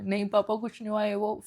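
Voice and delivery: imitating a scared voice. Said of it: "डरी डरी एकदम कांपती आवाज़ में".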